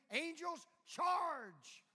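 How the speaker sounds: loud, high mock battle cry; rally the angels with a hammed-up shout.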